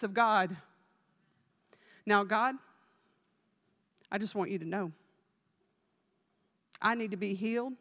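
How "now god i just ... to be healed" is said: softer, self-righteous prayer voice, slowing at the end; mock pious prayer. Churchgoer reminding God of a perfect attendance record, mock pious hush. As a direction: pray like someone bargaining with God over attendance.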